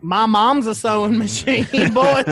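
put-on loud, high New York accent; brash high New York accent. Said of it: "that was my New York accent".

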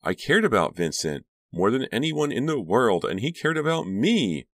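high, anguished protest; emotional outburst climbing in pitch; distraught. A narrator's reading. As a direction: plead it with rising desperation, highest at the end. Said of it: "Karina uttered a sob".

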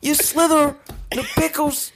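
high, loud, slow hammed-up British accent; British shopkeeper. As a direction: threaten the shoplifter in a goofy British voice. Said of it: "a British man that works at a grocery store".

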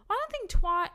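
talking through a burp; burping the words. Real, not acted. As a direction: burp while speaking. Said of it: "that was a burp again".

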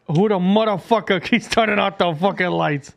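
imitating a Hawaiian guy's indignation; lightly put-on Hawaiian accent; mock Hawaiian accent. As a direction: mimic him in Hawaiian Pidgin accent. Mimics the man in the clip.

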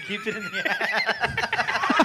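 high, slow, laughing through the words; cracking up at the attic joke. Real, not acted. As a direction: squeeze it out between laughs.

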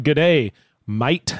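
a light Australian "Good day, mate"; a casual Australian accent attempt. Shown as a demonstration. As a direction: drift from Kiwi into an Australian accent. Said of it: "that's more Australian".

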